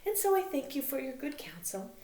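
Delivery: high, tearful voice half laughing through the grief; a broken girl weeping and giggling at once; mad Ophelia. Acted. Ophelia to the king and queen, high and tearful.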